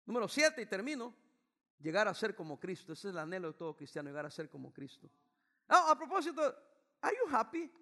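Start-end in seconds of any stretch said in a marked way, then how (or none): 5.7-7.7 playful aside. Real, not acted. Playful question to audience.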